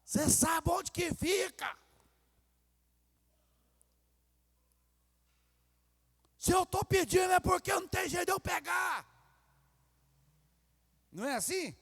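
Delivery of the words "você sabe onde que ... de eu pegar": mock irritated wife. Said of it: "se a esposa falar assim".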